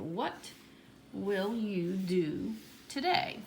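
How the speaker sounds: slow, spaced-out question; stretched words with gaps between; writing-out pace. Shown as a demonstration. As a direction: dictate it to yourself word by word. Teacher sounds out letter while writing.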